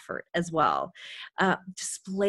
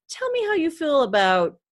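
sideline reporter; 4 dB louder than usual. Shown as a demonstration. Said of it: "a sideline interview".

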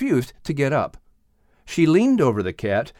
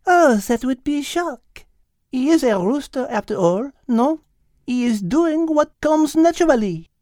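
put-on higher French accent, amused; French-accented speaker; 13 semitones higher than usual. The speaker explaining the rooster, French accent. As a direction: explain it with Gallic ease.

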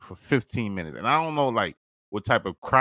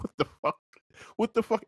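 shocked disbelief; faster than usual. Retold or imitated. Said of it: "And I'm like".

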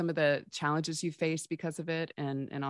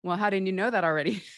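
mocking teacher; 4 semitones higher, 6 dB louder, faster than usual. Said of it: "If the teacher's gonna say".

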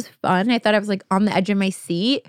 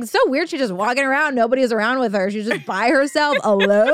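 said so loud; 3 semitones higher than usual. Retold or imitated. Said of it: "I just said it so loud".

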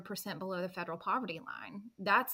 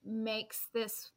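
steady voice with shaky moments; slower than usual. Real, not acted. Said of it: "I'm a little emotional about that".

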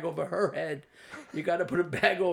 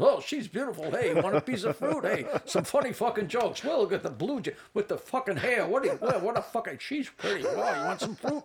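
fast, jumpy, higher voice, laughing; hyper Rodney; 4 semitones higher than usual. Retold or imitated. Rodney greeting Jackie and girlfriend, jumpy and manic. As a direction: rattle it off like a wound-up Rodney.

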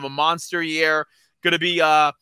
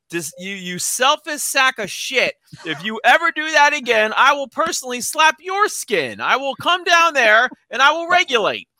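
mock angry rant; 5 semitones higher than usual. Mock scolding a late co-host.

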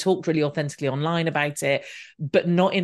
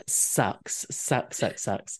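fading mutter; 5 semitones lower, 6 dB quieter, much slower than usual. Real, not acted. Fading repeated complaint.

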